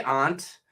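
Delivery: aunt said AHNT; drawn-out AH vowel in aunt; New England pronunciation. Shown as a demonstration. Host agrees with fellow New Englander, aunt as AHNT. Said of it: "we say aunt".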